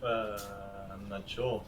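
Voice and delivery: talking while chewing; words round a bite of chocolate; mouth full. Real, not acted. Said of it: "I am chewing chocolate".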